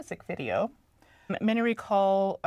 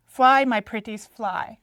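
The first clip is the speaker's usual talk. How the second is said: witch cackle call; 2 semitones higher, 6 dB louder, much slower than usual. Retold or imitated. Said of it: "remember her shouting".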